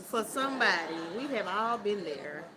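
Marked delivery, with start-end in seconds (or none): 1.2-2.4 laughing. Real, not acted. Says it again laughing.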